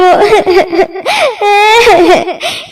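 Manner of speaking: a short acted sob; mild acted sob over no food; crying sob. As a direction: break into a brief weeping sound. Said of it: "তুলি কাঁদতে থাকে".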